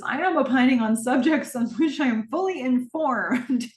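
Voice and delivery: rising, insistent, offended; indignant retort. Retold or imitated. Gordon insisting to Donna he is fully informed, indignant. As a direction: stress every word of the rebuttal. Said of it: "Gordon says".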